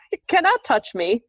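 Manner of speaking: high, giggly no, you're not allowed; laughing while shooing him off; laughing refusal. Retold or imitated. Me to the ghost, a high laughing refusal.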